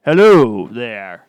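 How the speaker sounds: slow, low put-on voice; deep voice. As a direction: say it slowly and deep. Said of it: "That's a little bit better".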